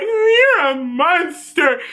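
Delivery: tearful accusation. Retold or imitated. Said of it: "Emma's like".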